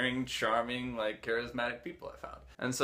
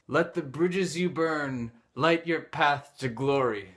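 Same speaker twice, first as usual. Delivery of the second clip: grand declaration; 3 semitones higher, 5 dB louder, slower than usual. Retold or imitated. Quoting the girl's grand line.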